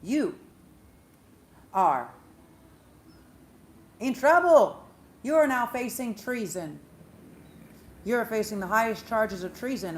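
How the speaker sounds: loud, emphatic announcement of charges, rising questions; accusing court official. Retold or imitated. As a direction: pronounce a treason charge like a royal herald. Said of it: "and says".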